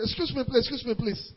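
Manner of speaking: soft mock "excuse me, please" waved away; dismissive brush-off. Preacher voicing a girl dismissing a suitor, soft mock brush-off. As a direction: brush him off quietly, twice.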